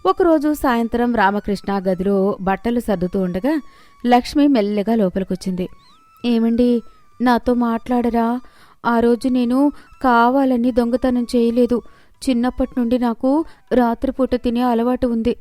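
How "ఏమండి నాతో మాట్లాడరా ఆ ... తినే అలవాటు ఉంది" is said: meek wife's apology, slightly raised pitch; contrite pleading. Acted. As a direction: plead gently with a husband who won't talk. Wife pleads with silent husband.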